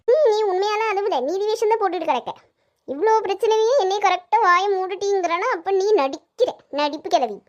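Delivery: cross and scornful; scolding. Acted. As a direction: call out the fakery, stretching the jibes. Accuses older woman of fake crying.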